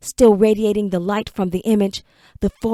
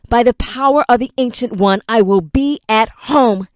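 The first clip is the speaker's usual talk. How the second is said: commanding declaration; 2 semitones higher, 5 dB louder than usual. Acted. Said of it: "fire spoke through him".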